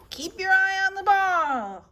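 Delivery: yelling. A narrator's reading. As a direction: call out to your player. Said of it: "I yell".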